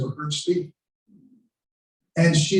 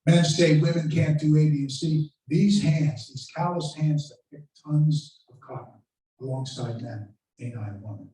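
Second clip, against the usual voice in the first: understated oratory. Retold or imitated. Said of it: "She'll say something like".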